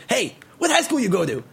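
mock New Yorker hollering a question; calling from car window. Drivers heckling a Brooklyn cyclist, calling out. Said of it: "people roll down their car windows and they're like".

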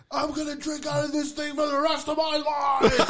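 put-on high, laughing drunk voice; imitating a drunk friend. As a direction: squeal it through laughter. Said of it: "he's like".

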